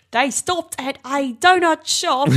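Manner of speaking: hammed-up reading from the script; voiceover impression. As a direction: imitate a stilted TV voiceover, drawn out. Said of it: "when he does his voiceover".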